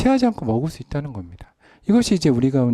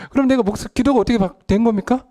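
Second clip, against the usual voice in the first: high, pressing rhetorical question; rising rhetorical climax; 9 semitones higher, 3 dB louder than usual. Acted. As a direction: push the question up urgently. Preacher's rhetorical climax, raised. (목소리를 높인 수사 의문)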